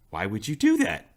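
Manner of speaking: lightly put-on Russian accent. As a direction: imitate a Russian woman's accent, puzzled. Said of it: "spoke English but with the Russian accent".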